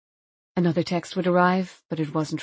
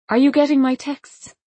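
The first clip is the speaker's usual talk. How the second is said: rising, louder desperate plea; pleading call; 8 semitones higher, 6 dB louder than usual. Acted. Unanswered texts to dad.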